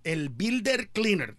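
put-on "El Builder Cleaner" with a Spanish accent; Spanish-accented name. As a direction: announce the hero in a Spanish accent. Gives hero's name Spanish style.

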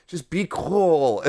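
slow, lightly voiced tipsy dad; drunk dad. Son mimics drunk dad playing it cool, slow drawl. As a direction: imitate dad drawling reassurance. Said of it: "he's acting like he's in a high school student".

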